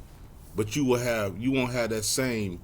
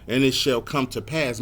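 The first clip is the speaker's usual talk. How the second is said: deliberate, emphatic scripture reading; slower reading; 3 semitones higher than usual. Shown as a demonstration. Preacher rereading the verse for the congregation, slower and deliberate. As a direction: spell the verse out phrase by phrase. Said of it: "Let me read it slower".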